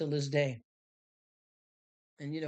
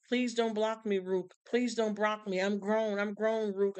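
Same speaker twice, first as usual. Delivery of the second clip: higher, mock pleading kid voice; pleading young fan; 4 semitones higher than usual. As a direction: beg like a kid not to be blocked. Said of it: "they kept telling me".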